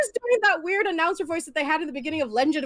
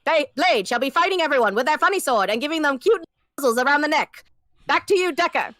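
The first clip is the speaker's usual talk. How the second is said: put-on old-timey radio announcer; 1920s announcer voice; 2 semitones higher, 4 dB louder than usual. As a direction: read it like a 1920s newsreel. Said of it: "I can cover it in my nineteen twenties voice".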